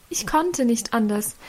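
ordinary delivery

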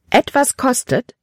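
high, startled cry of disbelief; shocked exclamation. A narrator's reading. Libby to Caleb, stunned by the cost: a high startled cry. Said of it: "rief Libby aus".

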